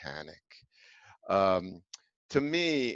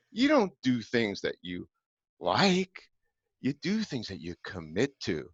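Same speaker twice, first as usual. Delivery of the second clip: retold lecture; 4 semitones higher than usual.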